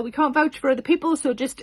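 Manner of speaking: usual speaking voice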